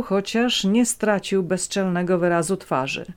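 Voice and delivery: ordinary delivery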